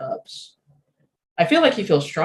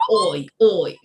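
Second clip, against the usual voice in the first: mock British "oi, oi"; exaggerated British accent; rough British contrast; 4 dB louder than usual. Shown as a demonstration. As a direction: call it like a British lad. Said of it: "not like".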